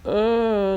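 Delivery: high, loud "uh" of disgust; disgusted noise. Acted. Lecturer reacting to a face of disgust, disgusted noise. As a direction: recoil with an acted groan of disgust. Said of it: "If I see the face of disgust".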